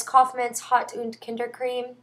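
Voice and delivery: product name in a mock German accent, lightly done; a half-hearted German accent on the brand name; horrible German accent. Shown as a demonstration. A beauty vlogger naming her German cream in a mock German accent. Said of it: "my horrible German accent".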